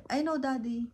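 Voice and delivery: a touch of toothache grumpiness, lightly acted; irritated reply. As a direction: replay a curt, annoyed answer. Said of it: "Parang ganun lang".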